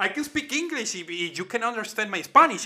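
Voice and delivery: hammed-up outrage in broken English; playful loud outburst at Vince McMahon; mock indignant rant. Continues mock English challenge.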